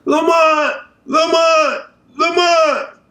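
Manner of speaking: high-pitched mock yell of a mother calling her son; mother's shrill imitated call; mom yelling name. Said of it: "moms is yelling his name".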